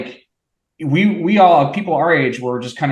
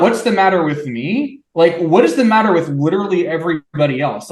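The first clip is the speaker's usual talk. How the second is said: higher-pitched mock incredulity; retold bafflement; 4 semitones higher than usual. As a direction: act out being baffled by everyone else. Retold childhood bafflement at crying classmates.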